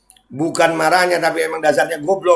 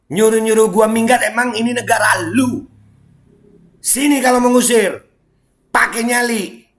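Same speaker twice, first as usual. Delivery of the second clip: angry challenge; 6 semitones higher than usual. Real, not acted. Challenging those who tell him leave.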